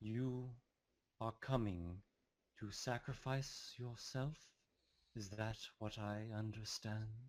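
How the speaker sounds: calm, soft, even voice. Voicing a voice the listener hears in the story, speaking to them: calm voice. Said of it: "The voice is calm".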